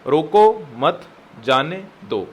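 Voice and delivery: slow, separated words for writing down; measured, very slow delivery; dictation. Shown as a demonstration. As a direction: dictate it word by word. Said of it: "notebook पे लिखो इसको".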